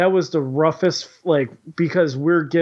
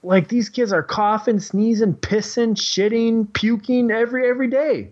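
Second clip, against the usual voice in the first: rising disbelief; 7 semitones higher than usual. Real, not acted. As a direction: pile up the gross list in rising disbelief. Listing classroom germs, building.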